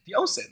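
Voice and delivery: "ocean" as OH-sin, said casually; deliberate mispronunciation. Acted. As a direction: say "ocean" with S in place of SH. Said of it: "you could say ocean instead".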